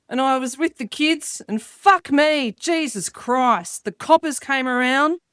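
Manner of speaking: a hint of a broad Australian bloke spinning a yarn; slow Australian pub-bloke rant, drawn out on "Jesus Christ"; ocker Aussie bloke. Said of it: "the act that I do".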